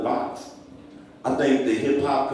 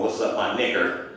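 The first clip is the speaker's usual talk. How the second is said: lower, colder, a touch menacing; contemptuous slur; 3 semitones lower, 4 dB quieter than usual. Retold or imitated. Slaveholder with a whip, cold mock contempt. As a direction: sneer it like a master with a whip. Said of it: "walking up to him with a whip going".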